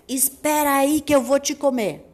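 loud menacing wolf. Acted. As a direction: threaten like a hungry wolf. Wolf threatens. (voz de lobo ameaçadora)

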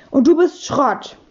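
mild gerufene Gegenbeleidigung; leicht gehoben zurückrufen; gerufen. A narrator's reading. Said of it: "hat sich geduckt und gerufen". (verhaltener Kinderruf)

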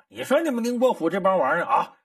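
hammed-up old servant cursing his masters after drinking; drunken cursing. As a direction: rail at the whole household over wine. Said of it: "喝点酒之后骂".

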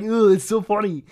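high, loud laughing groan; cracking up mid-sentence. Real, not acted. Laughing at the joke.

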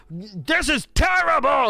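high, slow whiny complaint; mock whiny fan. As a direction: whine like a fed-up player. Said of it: "it's like".

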